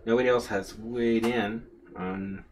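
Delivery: talking with pins in mouth; speaking around pins held in the lips. Real, not acted. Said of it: "I had a pin in my mouth".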